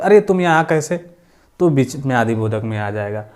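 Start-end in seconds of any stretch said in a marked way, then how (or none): 0.0-1.1 surprised. Shown as a demonstration. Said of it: "अचानक में बोलते".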